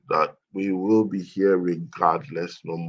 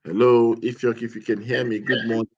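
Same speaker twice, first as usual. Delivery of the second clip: loud call to a caller on the line; 4 semitones higher, 6 dB louder than usual. Real, not acted. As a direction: raise the voice to reach the caller. Host calling to absent caller.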